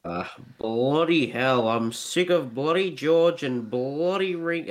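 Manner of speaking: a mock-fed-up drummer moaning about his bandmates; impression of a drummer. A drummer moaning about his bandmates, light mock grumble. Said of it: "I can do a good impression of him".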